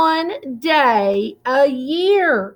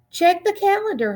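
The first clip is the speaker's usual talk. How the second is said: quick, higher and smiling; with a smile; 8 semitones higher, faster than usual. A narrator's reading. Mom smiling as she answers Noelle's hopeful question, quick and light. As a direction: tease her gently, smiling. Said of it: "her mom said with a smile".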